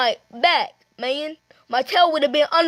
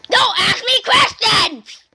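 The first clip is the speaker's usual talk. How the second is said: slow, emphatic pretend yell; irritated outburst; 3 semitones higher, 3 dB louder, slower than usual. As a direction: shut the questioner down. Snaps at a questioner.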